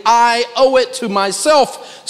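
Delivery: slow, mock self-indulgent whine; self-pity voice. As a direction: stretch it out like you're excusing yourself.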